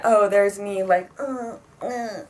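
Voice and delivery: punched opening falling into grunts; unimpressed by an old memory of yourself; mock dismay. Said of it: "rather than".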